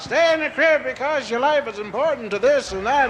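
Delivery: high, pleading mother; fussy mother. Retold or imitated. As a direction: coax like a worried mother. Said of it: "but mothers, they give you a half out".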